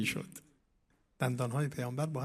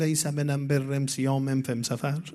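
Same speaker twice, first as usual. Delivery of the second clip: a touch of the villager's rustic Arabic dialect, louder and slow; replying in village dialect; 5 dB louder, slower than usual. Retold or imitated. The Prophet answering the villager kindly, in a light rustic Arabic dialect. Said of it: "با همون لهجهٔ دهاتی خودش جواب دادن".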